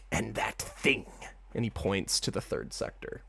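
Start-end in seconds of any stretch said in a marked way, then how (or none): 0.1-1.1 hushed, secretive whisper; whispering rat god. Acted. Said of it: "Rethaniel goes".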